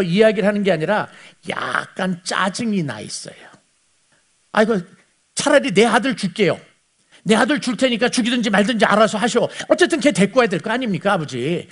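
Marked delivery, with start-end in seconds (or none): 4.5-11.7 mildly irritated eldest son, a bit raised; annoyed. Retold or imitated. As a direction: grumble it like a fed-up son pushing his father. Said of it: "이렇게 짜증나서 하는 이야기예요".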